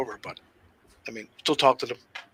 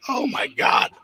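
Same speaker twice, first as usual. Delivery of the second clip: higher, breathless oh my God; stunned whisper; 6 semitones higher, 3 dB quieter, much slower than usual. Retold or imitated. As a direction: gasp it at the scar. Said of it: "I'm like".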